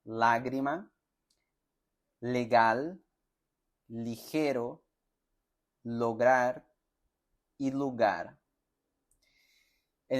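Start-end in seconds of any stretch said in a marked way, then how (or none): 0.0-8.4 words with a clean tongue-tip L, each set apart; pronunciation drill words; Spanish L. Shown as a demonstration. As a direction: model "lágrima" to "lugar" clearly. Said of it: "la pronuncia sería".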